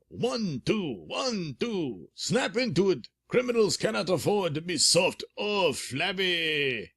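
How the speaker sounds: barking exercise commands; drill sergeant. Acted. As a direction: call out drill counts. Markov drills students.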